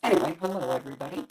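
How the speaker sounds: tinny, metallic mic sound. Real, not acted. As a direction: sounds like a robotic bad line. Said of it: "you sound weird now. You sound metallic".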